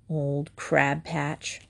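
slow, hushed, whispered grumble; muttering under breath. A narrator's reading. Boy stalking off from his mother, muttering under his breath. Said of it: "muttering under his breath".

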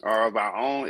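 African American accent, put on for the disclaimer; black voice. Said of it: "In my black voice".

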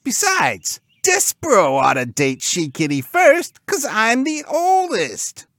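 high, loud pig bro; squeaky cartoon pig pulling rank; self-important pig. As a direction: claim first turn in a squealy voice. Pig figure argues he is eldest.

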